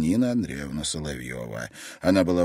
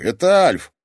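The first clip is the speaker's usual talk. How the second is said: higher and louder greeting; cheerful caller; 9 semitones higher, 10 dB louder than usual. Acted. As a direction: announce yourself on the phone. Caller on phone.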